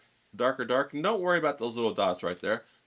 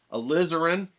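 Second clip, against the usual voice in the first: Alizarin said louder and higher, with conviction; 5 semitones higher, 5 dB louder than usual. Shown as a demonstration. Teacher naming the paint Alizarin louder, with conviction. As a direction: belt out Alizarin like you mean it. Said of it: "Say it like you mean it".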